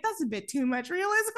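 high-pitched, laughing protest; laughing reaction. Retold or imitated. Podcaster recalling a too-real puke scene, laughing protest. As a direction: recoil with a giggle, voice up high.

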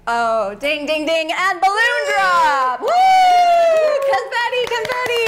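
high, excited announcer; mock game show. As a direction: celebrate like a quiz host. Mock celebration for correct guess.

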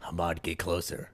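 low, softened mock command; instructor imitation. Instructors ordering the line closer.

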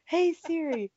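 high-pitched repeated summons; retold calling out. Walking around looking for a lost phone, calling out. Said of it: "I get mad at".

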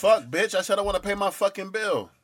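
frustrated caller snapping; furious at the phone; angry. Acted.

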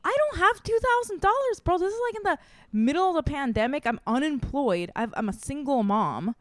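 spilling it out in a frantic rush; retold desperate plea.

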